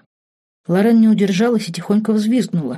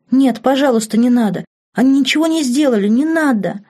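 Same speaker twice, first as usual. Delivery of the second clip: desperate plea; 7 semitones higher, 4 dB louder than usual. Acted. Lauren begging duke to spare twins.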